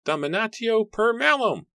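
high, loud spell-casting cry; ringing, high-pitched incantation; called-out incantation. A narrator's reading. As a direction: call out the curse at full pitch. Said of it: "Matthew called out the words".

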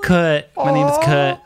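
"Kurt" with no R, close to "cut"; dropped R. Shown as a demonstration. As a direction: say "Kurt" as "kuht". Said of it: "imagine me saying Kurt".

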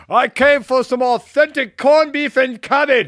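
high, loud and slow mock tourist; hammed-up clueless American ordering; dumb American tourist. Tourist in an Irish pub, loud slow mock order. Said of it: "and be like".

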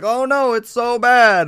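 high, loud mock wail of "oh no, it's so bad"; mocking fake outrage. Mocking companies who complain only after the bill passed, high loud wail. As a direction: ham up the fake corporate dismay. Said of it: "to be like".

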